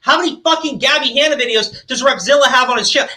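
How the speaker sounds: furious shouted rant; angry shout. Real, not acted. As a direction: hammer each question at them. Shouting rhetorical questions.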